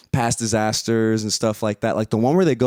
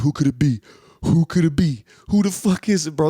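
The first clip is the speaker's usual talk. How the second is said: teasing hype; 7 semitones higher, 4 dB louder than usual. Retold or imitated. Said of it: "and they're like".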